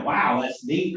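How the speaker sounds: bright, pleased wow, meaning that's neat; impressed wow. Shown as a demonstration. Texting back to his wife, an impressed wow. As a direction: sound genuinely impressed by it. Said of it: "And I meant it like".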